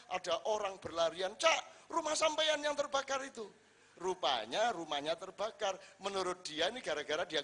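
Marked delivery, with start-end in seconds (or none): 1.4-3.4 loud, high shout of bad news; calling out in alarm. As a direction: yell to him across the village. Villager shouts news of fire. (berteriak memanggil dengan panik)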